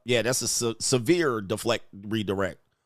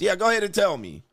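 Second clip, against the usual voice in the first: mock eager; 5 semitones higher than usual. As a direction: egg her on, hammed-up. Mock eager list demand.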